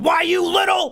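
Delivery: angry shrill shout, very high pitched. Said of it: "Just get mad".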